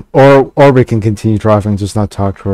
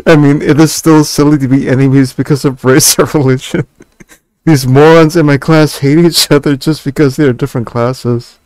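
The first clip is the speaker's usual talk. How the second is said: laughing while reading; 4 semitones higher than usual. Real, not acted. Laughs while reading Lisa's lines.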